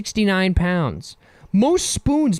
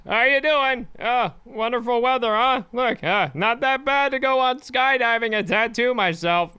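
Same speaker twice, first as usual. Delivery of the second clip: traditional white guy voice; 5 semitones higher than usual. Pretend. Skydiver shouting down to his wife, chipper white-guy voice. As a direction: call to her like a cheery suburban dad. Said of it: "my traditional white guy voice".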